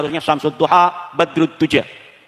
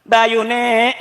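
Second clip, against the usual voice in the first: tags 1 only: calling out; 5 semitones higher than usual. Acted. Acted neighbour calls out again.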